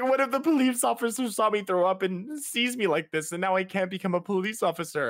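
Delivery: very high-pitched blubbering, bawling ugly cry. Retelling what he said to his mom, imitating him bawling. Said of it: "And he starts just bawling".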